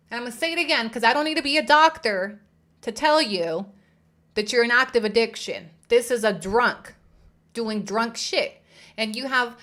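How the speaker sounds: loud, forceful accusation; heated call-out. Real, not acted. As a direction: lay into her loudly. Loud call-out about addiction.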